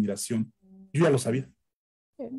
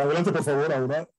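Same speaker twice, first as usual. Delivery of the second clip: plummy radio announcer voice. Shown as a demonstration. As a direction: put on a booming announcer voice. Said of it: "Esa es la voz, la voz engolada".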